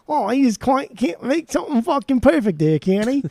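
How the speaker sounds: high, hammed-up mock Cockney; badly faked Cockney, wandering all over the place; Cockney accent. Shown as a demonstration. Singer fan attempting lyrics for a friend, bad Cockney accent. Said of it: "Cockney accent there".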